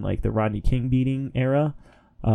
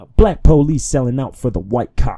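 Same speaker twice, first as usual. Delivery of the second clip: loud, hard-hitting, belted sung line; 3 semitones higher, 7 dB louder than usual. Showing a daily impersonation of a rapper after praise: rapper impersonation. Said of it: "my best rapper impersonation".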